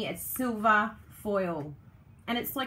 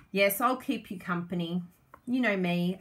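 usual speaking voice

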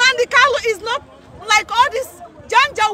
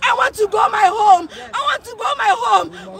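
tearful shout. Real, not acted. Crying appeal to world.

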